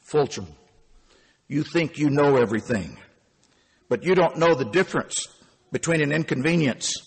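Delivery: a hint of a weary elder handing down wisdom; Sigmund Wohlman. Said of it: "Sigmund Wohlman, the night auditor".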